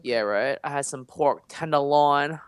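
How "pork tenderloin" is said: TENDERLOIN said the way the servers said it; "tenderloin" drawn out with mock relish; imitated menu pronunciation. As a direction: put on their way of saying "tenderloin". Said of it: "why I said it like that".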